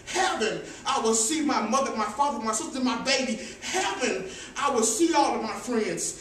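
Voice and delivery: loud, jubilant sermon climax; preaching climax. Acted. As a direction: build to a joyful peak.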